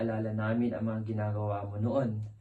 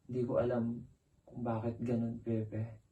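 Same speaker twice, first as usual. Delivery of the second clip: soft, sinking, puzzled sadness; troubled and downcast; 5 dB quieter than usual. Acted. Asking Pepe why things are so, downcast. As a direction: let the questions fade away softly.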